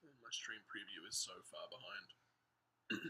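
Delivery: slow, soft whispered aside. Real, not acted. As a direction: breathe it out under the breath.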